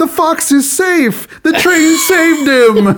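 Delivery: put-on very high-pitched childlike cheering. Retelling a son's reaction to a train scene in a movie: imitating a child cheering. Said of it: "He was cheering".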